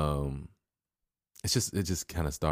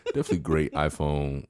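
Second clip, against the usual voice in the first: laughing. Real, not acted. Laughing through mock praise.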